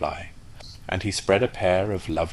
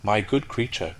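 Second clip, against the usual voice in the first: haughty; 3 semitones higher than usual. Acted. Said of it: "in a very haughty tone of voice".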